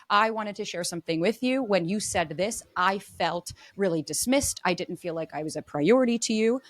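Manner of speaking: calm I statement. Shown as a demonstration. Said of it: "I'm gonna use I statements".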